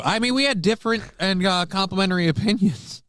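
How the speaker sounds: high, prim mock politician; hammed-up evasive denial; high mock Vivek. Mocking Vivek's answer.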